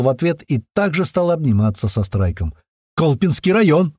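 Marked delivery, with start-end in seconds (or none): 2.9-3.9 excited, higher-pitched shout back; blurted out. A narrator's reading. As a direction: fire the answer straight back in delight. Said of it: "выпалил Лёха".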